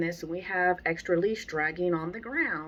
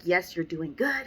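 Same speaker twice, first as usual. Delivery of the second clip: happy praise. Shown as a demonstration. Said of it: "these happy sounds like".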